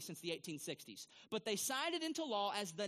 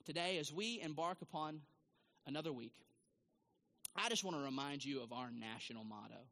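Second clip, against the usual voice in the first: lower, calm PA announcer voice; principal's announcement; 4 semitones lower than usual. Retold or imitated. Imitating a principal on the PA to students, lower and calm. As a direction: read it like a principal on the intercom. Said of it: "they were to say to their students".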